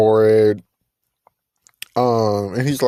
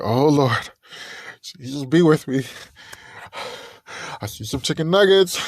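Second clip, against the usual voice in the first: mock prayer panic; 2 semitones higher than usual. Girl's mock panic over nuggets.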